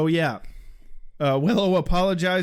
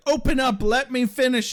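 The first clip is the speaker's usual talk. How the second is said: demanding villain; 6 semitones higher than usual. Retold or imitated. Kathy voiced in retelling.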